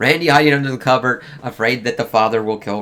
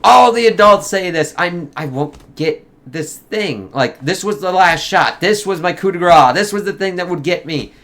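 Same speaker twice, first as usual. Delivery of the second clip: high, loud mock-anguished outcry; existential despair; 7 semitones higher, 7 dB louder than usual. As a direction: wail it as if the last hope is gone. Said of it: "the existential".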